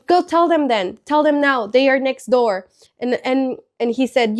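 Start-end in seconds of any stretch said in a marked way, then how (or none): 0.1-2.7 upset student retort. Retold or imitated. Student daring the teacher to report him, mildly upset. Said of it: "he gets even more upset".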